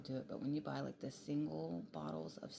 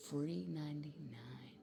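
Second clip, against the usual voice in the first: sly whisper; slower than usual. Retold or imitated. Playful slow whispered answer.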